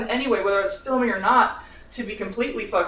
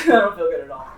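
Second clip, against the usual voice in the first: laughing it off; 3 semitones lower, faster than usual. Real, not acted.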